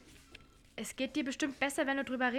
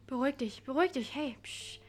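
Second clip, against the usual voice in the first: soothing. Acted. Soothing crying Charlotte.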